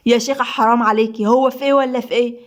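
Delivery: mildly sharp rebuke; sharp reproach. Acted. Adham telling the woman to stop, mildly sharp. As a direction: scold her with a touch of edge. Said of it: "أدهم بحدة".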